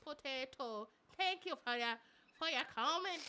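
badly faked Irish lilt; Irish accent. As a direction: put on a rough comic Irish accent. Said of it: "I'ma say it in Irish".

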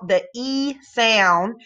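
slow stretched "E sound" with a long E; drawn-out long E. Shown as a demonstration. Teacher modelling the long E sound, slowly stretched. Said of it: "distinguishing the long E sound".

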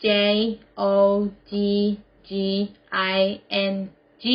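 letter by letter, slowly; spelled out. Shown as a demonstration. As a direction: spell it out with a pause after each letter. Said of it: "Spell it". (สะกดทีละตัวอักษรช้า ๆ)

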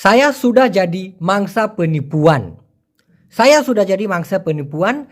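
very slow, each word separate; slow Malay model sentence. Shown as a demonstration. Teacher modelling Malay for learners, very slow. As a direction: dictate the Malay sentence slowly. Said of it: "teacher models full Malay sentence".

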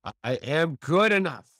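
firm affirmation; with belief. Shown as a demonstration. Host repeats affirmation with conviction. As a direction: say I am good enough and mean it. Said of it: "say it with total belief in yourself".

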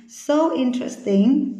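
"interesting" slowed right down, stress on IN; stress on first syllable. Shown as a demonstration. Teacher repeats after noting syllable one, slow stressed "interesting". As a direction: say "So interesting" slowly, leaning on IN in "interesting". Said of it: "âm tiết số một nhá".

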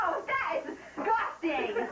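shrieking through laughter; disgusted while laughing. Real, not acted. Reacting to a fart.

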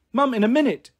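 high-pitched mock shout of a little girl. A narrator's reading. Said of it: "Pixie shouted at the top of her voice".

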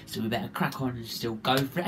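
low, soft voice of someone with a real cold; sore throat. Real, not acted. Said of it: "I sound like I've got a sore throat".

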